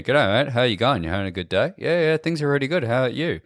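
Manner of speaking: broad Aussie, hardly moving the lips; broad Australian accent. Shown as a demonstration. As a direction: talk like a ventriloquist, jaw only. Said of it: "I can just talk to you like this".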